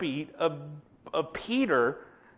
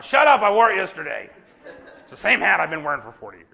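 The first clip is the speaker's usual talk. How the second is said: mock snappish comeback, louder and fast; grumpy retort; 3 semitones lower, 5 dB louder, faster than usual. Grumpy Israelite snapping at a friendly neighbour, mock irritated. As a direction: bite back at the friendly greeting.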